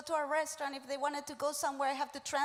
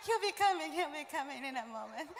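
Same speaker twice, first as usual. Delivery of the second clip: nervous little laughs around the words; acted sheepish excuse; awkward stalling. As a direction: reassure the guests with an uneasy chuckle.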